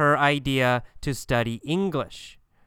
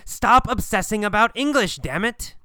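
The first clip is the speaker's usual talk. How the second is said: high-pitched exasperated scolding; reprimanding; 7 semitones higher than usual. Acted. Gabriel reprimands Kathy once more for obsessing, exasperated scolding. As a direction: tell her off, pitched up and insistent. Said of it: "He always reprimands Kathy".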